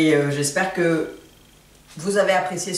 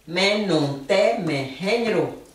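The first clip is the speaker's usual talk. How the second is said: slow; slower than usual. Shown as a demonstration. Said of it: "de la sonorité et de la phonétique".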